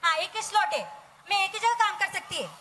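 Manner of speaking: lightly voiced Mumbai maid, chatty and bargaining; a hint of a street-smart housemaid pitching her one free slot; playing the maid Shanta Bai. Host as Shanta Bai tells the ladies she has one slot, in a lightly voiced maid's manner. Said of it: "मैं बनूंगी Shanta बाई".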